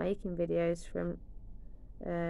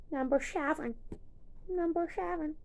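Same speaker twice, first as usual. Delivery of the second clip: climbing excited repeat; 8 semitones higher than usual. Real, not acted. Repeated higher and higher.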